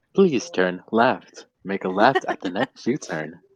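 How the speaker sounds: booming, very loud, sing-song sat-nav announcement voice. Pretending a voice comes out of a navigation device, the speaker uses a GPS navigation voice. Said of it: "and a voice comes out".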